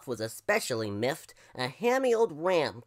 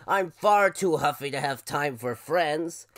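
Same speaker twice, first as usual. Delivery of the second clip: louder, mildly huffy buffalo; huffy buffalo holler; 6 dB louder than usual. Acted. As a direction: brush them off as a grumpy buffalo. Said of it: "Fluffalo hollered".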